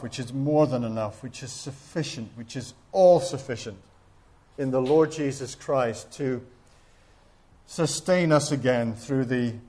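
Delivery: earnest pastoral prayer, unhurried. Acted. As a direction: lead the congregation in a closing prayer. Closing prayer.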